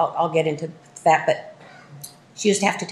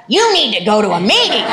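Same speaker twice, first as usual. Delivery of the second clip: laughing; 2 semitones higher, 4 dB louder than usual. Retold or imitated. God's voice insisting, laughing.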